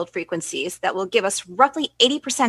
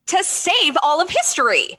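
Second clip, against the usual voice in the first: indignant whisper; 9 semitones higher than usual. Acted. Indignant defence of officer.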